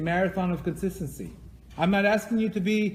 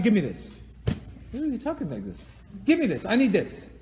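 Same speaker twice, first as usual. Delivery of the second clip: put-on bratty kid demand; 3 semitones higher than usual. Teacher imitating a rude kid demanding things, bratty. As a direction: whine it like a grabby kid. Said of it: "Imagine a kid tells you".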